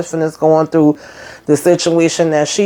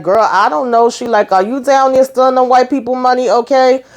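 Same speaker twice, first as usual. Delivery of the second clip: sassy teasing; 6 semitones higher than usual. Retold or imitated. Danny sassily teasing Sabrina.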